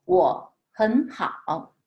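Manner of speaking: 我很好 read slowly, 我 rising to a second tone; slow careful model of 我很好 with tone change; third tone sandhi. Shown as a demonstration. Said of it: "Be careful, third tones, we have to change".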